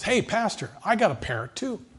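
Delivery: put-on a high, sweet old lady's voice; woman's voice. Pastor voices the woman telling him about her parrot, lightly high. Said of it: "a woman ... says".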